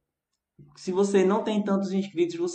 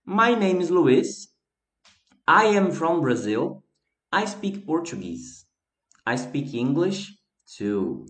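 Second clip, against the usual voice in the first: careful reading aloud. Shown as a demonstration. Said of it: "Vamos lá?".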